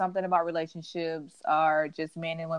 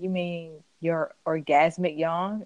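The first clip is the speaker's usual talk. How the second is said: slow mocking correction; slower than usual. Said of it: "He's like".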